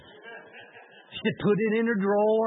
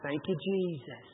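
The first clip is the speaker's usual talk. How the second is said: hushed thanks; 4 semitones lower, 9 dB quieter than usual. Real, not acted. Preacher's quiet aside of praise.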